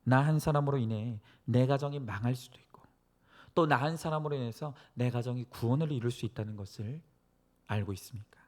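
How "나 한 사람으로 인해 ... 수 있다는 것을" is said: ordinary talk, nothing marked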